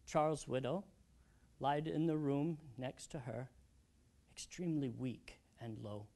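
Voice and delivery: soft, halting, sorrowful recollection; subdued grief. Acted. Old widower recounting his family's deaths, subdued grief. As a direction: recall painful losses softly, with long pauses. Recalls wife's and daughter's illness, death.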